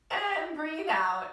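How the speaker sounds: drawn-out calm cue to exhale; slow breathing cue. Shown as a demonstration. Teacher guiding children to breathe out slowly. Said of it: "out through our mouth".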